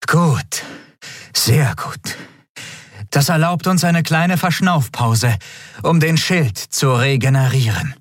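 high, easing into relief; relieved captain. Acted. Captain Quodal relieved after the enemy retreats, high and easing. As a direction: breathe out and let the tension go. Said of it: "atmete auf".

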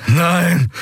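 high, anguished "Nein!" with falling end; the horror of realisation; collapsing prisoner crying out in despair. A narrator's reading. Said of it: "landete er auf dem Boden".

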